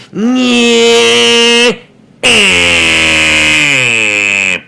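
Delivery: loud, high, wordless imitation of dad yelling; a loud, high, garbled imitation of dad; dad's garbled yelling. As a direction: mimic dad's angry noises as the neighbours hear them. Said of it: "my dad, he talks like this".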